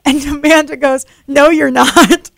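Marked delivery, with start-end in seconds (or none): 1.3-2.3 drawn-out, higher mock-aggressive retort. Amanda warns off her rival Chloe, mock aggressive. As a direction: snap back slowly and loudly, playing up the aggression. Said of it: "Something very, like, aggressive".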